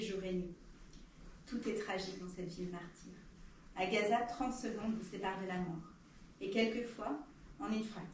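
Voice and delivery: solemn verse reading with deliberate pauses; poem recitation. Acted. Reader voices Ziad's poem on Gaza's children, solemn recitation. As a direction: recite it line by line, letting each image land. Reads second poem aloud.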